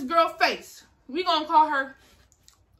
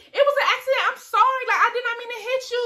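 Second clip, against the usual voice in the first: high pleading apology; 9 semitones higher, faster than usual. Retold or imitated. Apologising to the girl.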